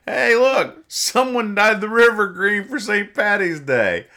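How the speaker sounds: loud, high-pitched comic caveman call; excited cavemen. Acted. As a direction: shout it out high and drawn out, hamming it up. Voices two cavemen in comic.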